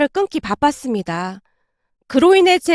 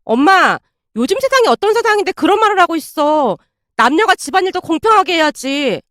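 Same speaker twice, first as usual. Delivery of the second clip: higher, protesting whine to a mother; aggrieved; 4 semitones higher than usual. Acted. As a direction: protest as if unfairly blamed. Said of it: "억울하다는 듯이 장모님께 말을 했어요".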